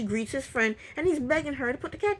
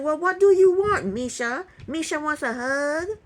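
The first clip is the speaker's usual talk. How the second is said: louder, raised opening, then drawn-out question; mock condescension; 4 semitones higher, 5 dB louder than usual. Retelling his offer of a hug to Misha, mock condescending. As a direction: imitate someone talking down to a partner.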